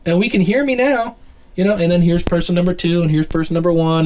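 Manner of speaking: room noise off mic. Shown as a demonstration. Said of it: "can you hear how much room noise".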